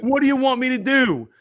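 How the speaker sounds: high-pitched repeated appeal; exasperated protest. Real, not acted. Repeats the protest over laughter.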